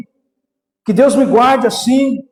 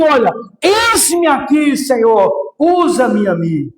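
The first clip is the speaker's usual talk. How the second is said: crying out to God; 3 semitones higher, slower than usual. Retold or imitated. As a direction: cry out your offering to the Lord. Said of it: "eu só pude dizer assim".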